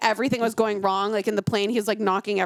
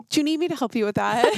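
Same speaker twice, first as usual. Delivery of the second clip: teasing offer; faster than usual. Retold or imitated. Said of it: "And then I'm always like".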